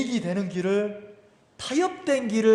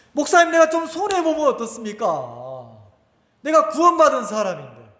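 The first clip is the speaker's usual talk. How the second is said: eager believer's plea; 3 semitones higher, 3 dB louder than usual. Retold or imitated. Acts a congregant addressing the pastor.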